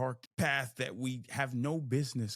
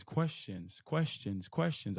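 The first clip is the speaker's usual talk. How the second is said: quick run of the word questions; rapid repetition; 3 semitones lower, slower than usual. Real, not acted. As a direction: rattle off questions one after another. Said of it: "I say that so fast".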